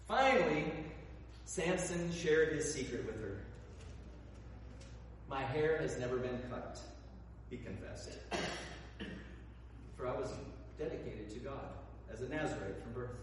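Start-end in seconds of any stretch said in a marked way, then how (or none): 5.3-13.2 hushed confession. Acted. Samson finally confesses his secret.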